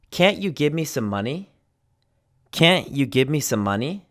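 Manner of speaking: CAN'T with a full vowel and no released T; glottal stop. Shown as a demonstration. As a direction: catch the end of CAN'T before "you". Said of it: "give you some examples of can't".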